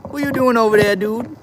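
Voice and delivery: very high cooing call to the pet; pet talk. Real, not acted. Streamer asks his pet what it's up to, high cooing. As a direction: coo the question up at the pet.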